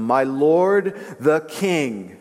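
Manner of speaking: measured calling out to a king; mild acted shout. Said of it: "came out and shouted to him".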